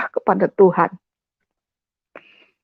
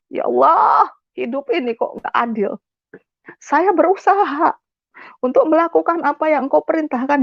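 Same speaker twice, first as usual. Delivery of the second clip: higher-pitched, aggrieved plea; pleading grievance in a raised pitch; retold complaint to God; 4 semitones higher than usual. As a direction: reenact a bitter protest to God, pitched up. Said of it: "saya mengutuki Tuhan".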